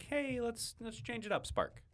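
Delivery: bright high-pitched sing-song; high playful voice. Pretend. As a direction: pitch it way up, teasing. Playful voice for a midweek car.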